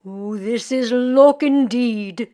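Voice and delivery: slow, pleased Irish countryman voice; Jamie to himself. A narrator's reading. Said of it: "Jamie said to himself".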